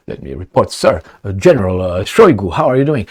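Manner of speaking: lightly voiced formal officer reporting; mock polite salute to a general; a hint of a stiff subordinate officer; stiff military report. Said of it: "that's the way they talk".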